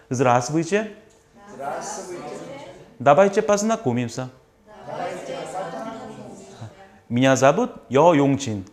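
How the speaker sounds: very slow, word-by-word Russian; slow model reading. Shown as a demonstration. Teacher reads the dialogue slowly for students to repeat. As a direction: read each Russian word out slowly for the class. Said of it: "한번 읽어본 다음에".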